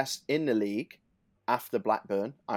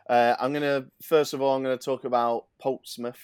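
casual Essex accent; 2 semitones higher, 4 dB louder than usual. Real, not acted. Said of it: "an Essex accent then".

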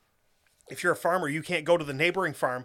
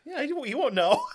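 character voice; 8 semitones higher than usual. Retold or imitated. Quoting a movie character.

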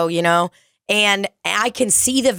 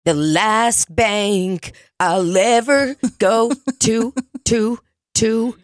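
drawn-out imitation; 2 semitones higher, much slower than usual. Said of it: "So he'll just be like".

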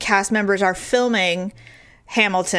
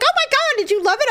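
excited disbelief; faster than usual. Retold or imitated. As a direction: gush with amazement. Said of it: "He's like".

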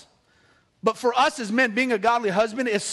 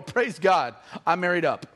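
grateful mock declaration; 5 semitones lower than usual. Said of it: "I look in the mirror every morning and go".

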